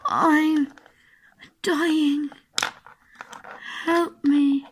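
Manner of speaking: hammed-up dying plea; mock fading gasp for help; dying words. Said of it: "pretend like you're dying".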